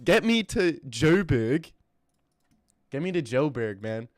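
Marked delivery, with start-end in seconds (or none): 0.0-1.7 slow, put-on South African accent. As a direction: drawl it like a Joburg local, South African accent. South African accent, then plain take.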